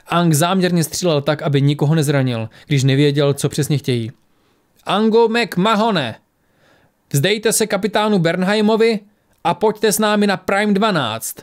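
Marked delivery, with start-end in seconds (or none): 4.8-11.4 high, slow, stern woman's command; stern female voice. A narrator's reading. Woman outside orders the fugitive to surrender, stern. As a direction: deliver an ultimatum in a raised, measured pitch. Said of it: "ozval se přísný ženský hlas".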